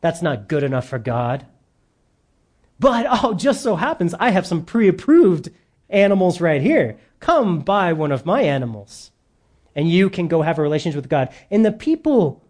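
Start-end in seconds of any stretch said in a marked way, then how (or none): 0.0-11.3 mock temple vendor. Temple seller steering buyers to his pre-approved animals, hammed-up sales pitch. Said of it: "And they said".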